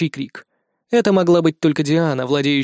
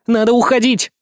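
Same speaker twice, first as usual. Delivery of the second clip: more insistent; 6 semitones higher, 3 dB louder than usual. A narrator's reading. Reikki urging again, more urgently.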